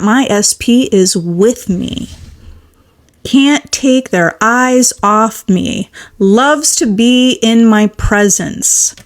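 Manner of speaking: slow affirmation. Shown as a demonstration. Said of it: "You can affirm that".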